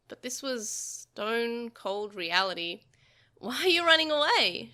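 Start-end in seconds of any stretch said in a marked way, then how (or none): 3.4-4.7 high loud creature shout. A narrator's reading. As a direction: shout after him. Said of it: "shouted the incarnation".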